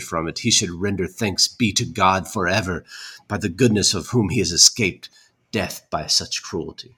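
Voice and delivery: indignant formal reading; dramatic letter reading. Acted. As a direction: read an angry old letter aloud. Reads old letter aloud.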